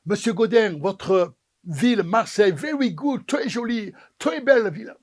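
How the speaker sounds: French with a lightly put-on English accent; the Queen praises Marseille in an English-accented French. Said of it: "avec son accent anglais".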